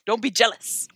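lightly voiced tough-guy moralizer; a hint of a cartoon coach's lecture; Mister T. Mister T lectures a jealous sibling, light impression. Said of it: "Mister T says".

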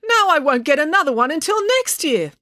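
high-pitched lament; wailing. A narrator's reading. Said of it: "wailed Doctor Hilary".

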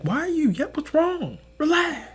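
high-pitched parody of dad telling someone off; imitating dad. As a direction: squeal it like a nagging father. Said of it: "My dad tells me all the time".

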